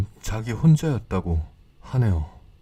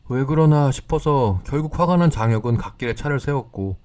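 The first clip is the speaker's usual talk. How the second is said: usual speaking voice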